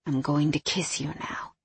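low, soft, intimate male voice; male lover. A narrator's reading. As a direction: murmur it low, just before a kiss. Hero's intimate line voiced by narrator.

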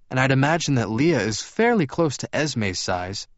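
lightly voiced, courteous vampire; Edward's character voice. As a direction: lift the pitch a little, explain politely. Edward's dialogue in story.

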